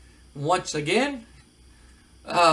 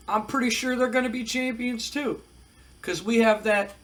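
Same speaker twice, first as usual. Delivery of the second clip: mock Kevin Nash cool-guy taunt; lightly voiced biker heel; wrestler promo; 3 semitones higher than usual. Nash taunting Dallas Page in promo, lightly voiced. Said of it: "And they said".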